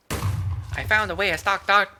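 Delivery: high, loud, eager intern; intern Steven voice. Acted. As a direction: pitch it up, bright and eager. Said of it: "intern Steven's voice".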